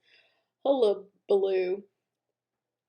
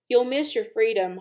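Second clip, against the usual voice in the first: goose honking; 2 semitones higher, 5 dB louder than usual. Acted. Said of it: "honked the goose".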